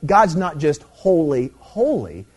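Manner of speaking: HOLY, HOLY spaced out slowly; emphatic repetition. Shown as a demonstration. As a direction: draw out each holy as its own step. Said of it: "To emphasize it".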